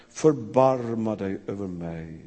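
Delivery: low, slow, hushed prayer; "förbarma" said low and slow, like a private prayer; quiet plea. Shown as a demonstration. Preacher repeating the beggar's prayer softly, slow and low. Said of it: "en sån oerhörd bön".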